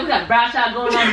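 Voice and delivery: fast, laughing imitation of a country twang; mock country accent. Friend mocking her country accent while laughing. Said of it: "Where did that accent just come from".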